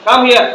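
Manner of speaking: "Come here" in two clear words; learner pronunciation. Shown as a demonstration. Teacher repeats our way, full "Come here". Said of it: "আমরা বলি না".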